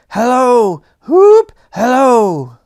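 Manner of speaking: high, loud squawking parrot call; a boy mimicking a shrieking parrot. Young Scrooge imitates the parrot.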